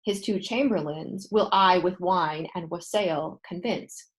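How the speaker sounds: "will" lifted, rest slow and measured; slow Shakespeare reading. Shown as a demonstration. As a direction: read the line slowly like a verse quote. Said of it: "Lady Macbeth uses ... when she says".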